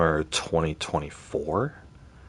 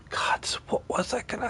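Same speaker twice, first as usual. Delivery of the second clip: frustrated whisper to self; whispered mutter; 6 dB quieter than usual. Real, not acted. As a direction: breathe it out under your breath. Muttering while trying to recall.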